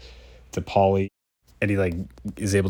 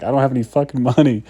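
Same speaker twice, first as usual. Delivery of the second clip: quick, louder, higher mock outburst; desperate outburst; 5 semitones higher, 5 dB louder, faster than usual. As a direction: blurt it out fast like a cornered busker. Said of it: "He's like".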